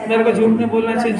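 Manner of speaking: quick recited rote line; mock learning by heart, fast; rote memorising. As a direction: rattle it off like a memorised rule. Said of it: "ये याद करना शुरू किया".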